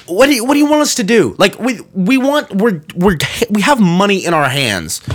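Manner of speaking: exasperated customers begging to just pay; exasperated plea. Retold or imitated. Customers with money in hand pleading, exasperated. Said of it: "And we were like".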